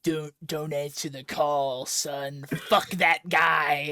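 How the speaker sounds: a father telling his son to ignore the call; dismissive dad. Retold or imitated. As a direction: talk him out of it like a scornful father. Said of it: "his dad is like".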